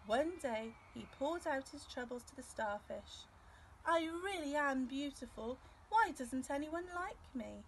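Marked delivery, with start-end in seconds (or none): 3.8-7.6 higher, louder near-tearful complaint; sad lament. Acted. Rainbow fish pouring out troubles to starfish, tearful. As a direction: pour out your troubles, close to crying.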